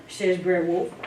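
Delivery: plain reading voice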